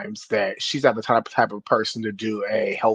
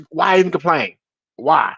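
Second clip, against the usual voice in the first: frustrated; 4 semitones higher than usual. Real, not acted. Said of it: "Now I'm getting frustrated".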